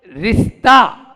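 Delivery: रिश्ता split as रिस-ता, stretching the first syllable; रिश्ता broken up. Shown as a demonstration. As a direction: draw out the "रिस" in रिश्ता, then land on "ता". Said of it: "उसको मेरी तरह पढ़ो". (रिश्ता को तोड़कर, "रिस-ता" बोलें)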